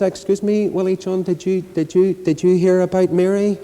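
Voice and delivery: high, fussy breathless stammer; lightly acted breathless gossip; mock breathless. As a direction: act winded off the bike, stumbling over "did you". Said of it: "She said breathlessly".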